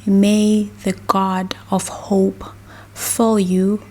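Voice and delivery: ordinary talk, nothing marked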